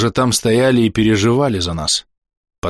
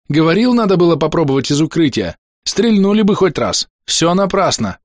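high, agitated soldier's lament; panicky complaint; 9 semitones higher than usual. Acted. Soldier to his comrades under threat, panicky. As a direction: fret aloud as if all is lost.

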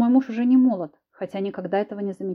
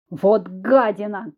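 yell; 5 dB louder, much slower than usual. A narrator's reading. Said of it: "завопил Артур".

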